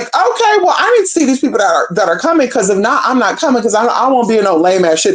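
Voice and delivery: high mock voice, rushed at the start; a light impression of a picky, demanding man; mimicking him. The man insisting on seeing the guests, high mock voice. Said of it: "was like".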